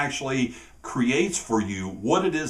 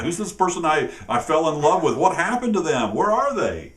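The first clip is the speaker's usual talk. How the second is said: higher, rising run of baffled questions; mock bewilderment; 4 semitones higher than usual. Partner wondering where their love went, mock bewilderment. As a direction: play at searching for the vanished sweetheart.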